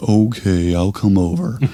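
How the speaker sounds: slow, drawn-out, gloomy moping delivery. Retelling the lady's husband Richard coming over for help, Eeyore voice. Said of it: "he's kind of like Eeyore".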